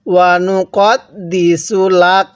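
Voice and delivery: slow recitation, stopping on the last letter; tajweed waqf demonstration; slow recitation with a stop. Shown as a demonstration. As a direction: recite and pause cleanly at the end. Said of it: "ওয়াকফ করছি".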